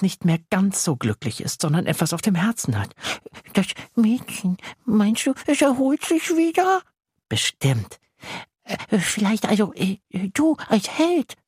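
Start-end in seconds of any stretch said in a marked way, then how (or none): 3.5-11.3 high, hesitant monster voice; the little monster shyly asking for help; worried little monster. Acted. Monster worried about girl. (besorgtes kleines Ungeheuer)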